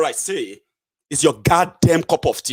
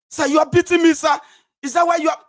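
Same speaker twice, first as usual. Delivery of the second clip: mock pleading; 11 semitones higher, faster than usual. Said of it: "They beat you and beat you".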